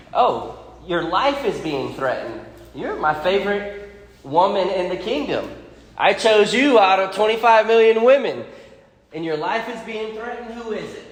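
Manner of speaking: a lightly voiced worried king; voicing the king. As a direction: play the smitten king asking who threatens her. King voiced in Bible retelling.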